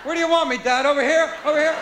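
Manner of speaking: put-on obedient child. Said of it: "we are dumb when we're children".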